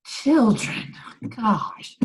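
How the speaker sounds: high, loud scolding outburst; mock exasperation. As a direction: scold them like squabbling kids. Her exasperated reaction to both men.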